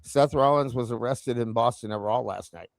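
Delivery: low, even robotic news read; calm, flat synthetic announcer. Shown as a demonstration. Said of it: "That, that would be the A I".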